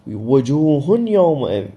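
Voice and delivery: "وجوه يومئذ" drawn out, with a held nasal ي joining the words; idgham with ghunna. Shown as a demonstration. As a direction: slowly blend the tanween of وجوه into the ي of يومئذ through the nose. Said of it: "فإذا هاي إدغام بغنة". (إدغام التنوين بغنة في «وجوه يومئذ»)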